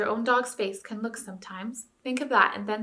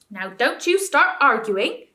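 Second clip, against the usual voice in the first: angry scolding; 5 semitones higher, 8 dB louder, slower than usual. A narrator's reading. Ape scolding bear.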